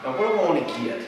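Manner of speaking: unhurried, mildly casual musing; laid back. Acted. Brother while the house is on fire, laid back. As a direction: ponder it calmly, no alarm. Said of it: "he's just so laid back".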